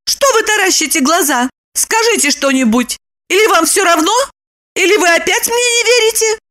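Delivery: high, cross; cross Lipochka. A narrator's reading. Lipochka prodding a stunned Roman. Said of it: "рассердилась и спросила".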